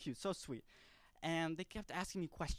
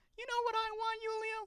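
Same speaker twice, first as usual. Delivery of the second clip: put-on very high, little kid's childlike voice; 10 dB louder than usual. Retelling what a kid asked him, in a high-pitched kid voice. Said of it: "He had a very high pitched voice".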